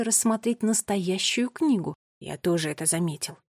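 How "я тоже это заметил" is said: soft, lower hushed voice; whispering. A narrator's reading. Finn admits to his sister he noticed, whispering. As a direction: confide it quietly. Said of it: "прошептал он".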